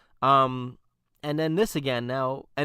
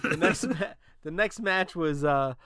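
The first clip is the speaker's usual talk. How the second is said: put-on voice; 3 semitones higher than usual. Real, not acted. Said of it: "I don't know why I'm doing that voice".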